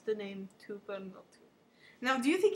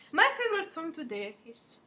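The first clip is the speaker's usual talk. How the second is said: louder and higher, presenting the song; big host announcement; 5 semitones higher, 6 dB louder than usual. Pretend. Pretend TV host announcing the song of the day, excited.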